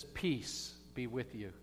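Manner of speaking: soft, slow, quiet peace be with you; soft first blessing; gentle blessing. Shown as a demonstration. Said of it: "he doesn't just say it once".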